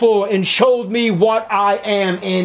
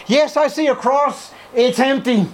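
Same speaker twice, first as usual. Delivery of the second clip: eager convert; 7 semitones higher than usual. Acted. Sinner answers the preacher.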